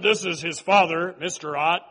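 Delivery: imitating a nasal dad. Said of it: "his father talked like this".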